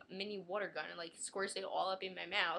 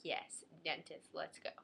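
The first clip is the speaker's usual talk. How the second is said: slow, lower deadpan sarcasm; sarcastic; 4 semitones lower, 4 dB quieter, slower than usual. Retold or imitated. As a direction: drag it out, totally unimpressed. Sarcastic reply in car.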